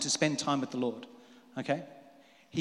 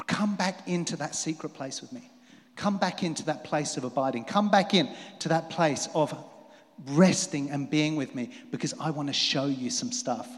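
gentle calling; 3 dB quieter than usual. Acted. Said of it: "God has been calling".

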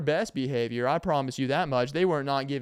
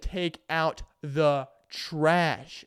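mocking repeat; much slower than usual. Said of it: "I said".

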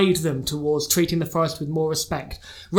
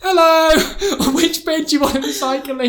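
friendly goddess voice; 8 semitones higher, 3 dB louder, slower than usual. Retold or imitated.

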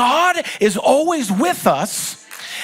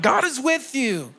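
loud and proud; 3 dB quieter than usual. Shown as a demonstration. Pastor urges the congregation to tell each other, loud and proud. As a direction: say "God is with you." out loud, with pride. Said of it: "tell them loud and proud".

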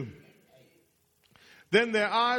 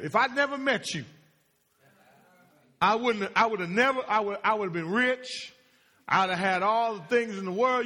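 mock bitter spouse; 3 dB louder than usual. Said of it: "married people do this kind of stuff".

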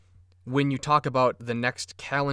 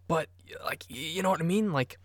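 whispering; 3 semitones higher, 3 dB quieter than usual. Real, not acted. Aside to the audience.

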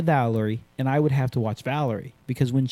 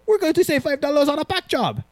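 mock Asian accent, much higher; funny foreign accent; 13 semitones higher than usual. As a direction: imitate the jumpers with a put-on Asian accent. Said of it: "they had a funny accent".

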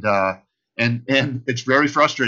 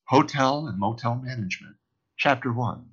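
audiobook reading; 5 dB quieter than usual. Retold or imitated. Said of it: "I'd be like".

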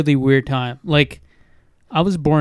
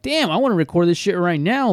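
retold eagerness, pitched higher; fired up; 4 semitones higher than usual. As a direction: replay an excited thought to himself. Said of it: "I was all fired up".

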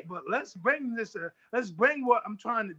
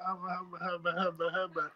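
lower, softer mumbling stammer; mock stammer; 4 semitones lower, 6 dB quieter than usual. Boxer mocks a rival who loses his words face to face. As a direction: fumble the words like a tough guy gone shy. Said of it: "see him and be like".

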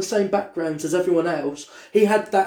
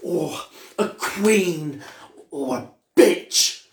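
camp friend; much slower than usual. Retold or imitated. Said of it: "He went".

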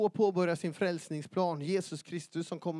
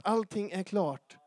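usual speaking voice

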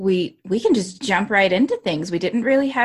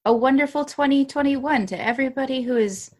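stiff numb mouth after dentist; barely moving the lips; 6 semitones higher than usual. Real, not acted. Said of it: "my face isn't moving much".

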